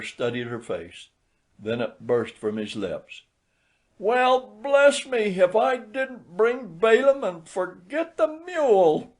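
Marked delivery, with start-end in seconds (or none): 4.0-9.1 put-on high, loud drunken outburst; drunk old man. A narrator's reading. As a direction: blurt it out in dismay.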